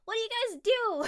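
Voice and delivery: talking round a big sweet; words muffled by a mouthful; mouth full. Real, not acted. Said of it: "And my mouth is full".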